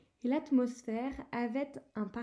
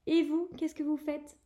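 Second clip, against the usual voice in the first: suspicious; 4 semitones higher than usual. Acted. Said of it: "d'un air soupçonneux".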